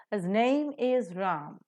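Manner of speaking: "name" and "Ram" stressed, "his" and "is" weak; slow model sentence stressing "name" and "Ram". Shown as a demonstration. Teacher models the sentence for students, stressing "name" and "Ram". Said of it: "name and Ram being nouns are accented".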